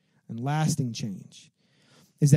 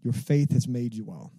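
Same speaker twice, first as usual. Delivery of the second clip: gentle blessing; 3 semitones lower, slower than usual. Retold or imitated. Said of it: "and he says".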